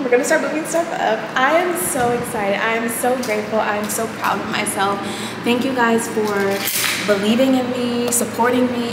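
speaking in an empty, echoing room; echoey room. Real, not acted. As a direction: voice bouncing off bare walls. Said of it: "It's so echoey in here".

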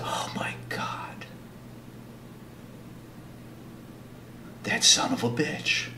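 slow, stunned mock whisper; hushed disbelief. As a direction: whisper it as if it just sank in. Acted realisation of being insulted.

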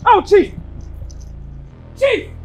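loud, desperate lament over lost money; panicked wail. Acted. Bar owner wailing as the chief leaves with the money. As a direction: cry out as the money walks away.

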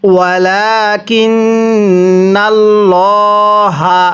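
long drawn Quranic chant with a rising end; slow recitation. Shown as a demonstration. Teacher reciting the next word to students, slow chant. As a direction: stretch every vowel like a reciter. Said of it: "এরপরে".

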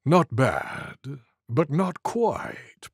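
purring. Acted. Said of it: "purred a low voice".

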